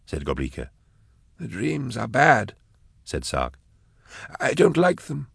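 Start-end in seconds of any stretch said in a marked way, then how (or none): 1.4-5.3 put-on high, thin childlike pleading; frail pleading man. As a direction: beg softly, like a lost child. Sark complaining of dreams.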